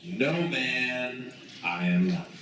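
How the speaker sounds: quick retort. Acted. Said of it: "Peter retorted".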